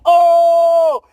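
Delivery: loud high hype-man shout; hammed-up bragging shout on Snapchat. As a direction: hype yourself up for the camera. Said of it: "He like".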